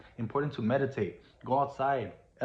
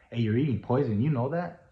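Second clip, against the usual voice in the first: blunt and direct. Shown as a demonstration. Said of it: "if I were to be direct".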